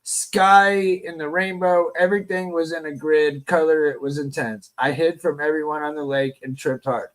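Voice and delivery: reading aloud. A narrator's reading. Reads a viewer's comment aloud.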